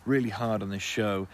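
a light host-style announcement to listeners; outro read. Acted. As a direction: read the thanks and the sponsor plug. Podcast outro and sponsor read.

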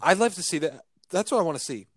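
hiccuping while talking; with hiccups. Real, not acted. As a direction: talk through hiccups. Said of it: "Sorry, I've got hiccups".

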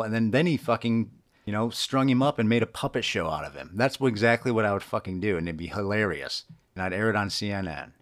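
heated rant, loud at first; worked up. Real, not acted. Podcaster taunting the Taliban to come get him, worked up. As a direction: keep ranting, real frustration boiling over. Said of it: "I'm getting all worked up".

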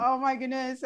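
normal talking voice

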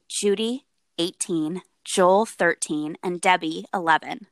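measured true-crime storytelling; story narration. A narrator's reading. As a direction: set the scene for a chilling story.

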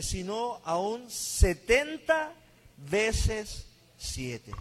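steady, measured Bible reading voice; scripture reading. Acted. Pastor reading Matthew to viewers online, measured reading. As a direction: read the passage aloud for the congregation. Reads Mateo 18 aloud.

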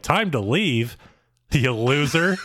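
lightly imitated taunt, lifting on the insult; mock-incredulous echo with a jab; mocking retort. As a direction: parrot it back as a jeering question. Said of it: "And she's like".

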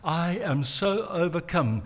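soft, begging plea to friends; Jesus softly begging his friends to watch and pray; pleading. Retold or imitated. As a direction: quietly beg them to stay with you. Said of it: "he pleads with all of them".

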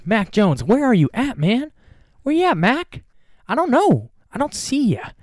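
high, teasing call into the distance; playfully shouting for a lost player; mock calling out. Vlogger teasing the Patriots quarterback, high mocking call.

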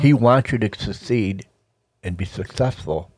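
words slurred without dentures; toothless. Real, not acted. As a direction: speak as if your teeth are out. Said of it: "I can't talk without my teeth".

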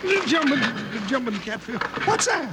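jumpy, spooked exclamation; jolted by a sudden noise; startled. Acted.

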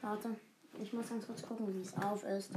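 low, quiet robot voice; old speech synthesizer. Pretend. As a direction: drone it like a machine. (tiefe, leise Roboterstimme)

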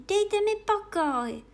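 put-on girl snapping at a pigeon; offended plea. A narrator's reading. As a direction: push him away, hurt and annoyed. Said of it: "řekla Alenka uraženě".

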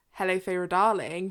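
plain British English delivery; British accent. Shown as a demonstration. Host contrasting listeners' inner monologues, British accent. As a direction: say it in the speaker's own British accent. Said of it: "Australian and American".

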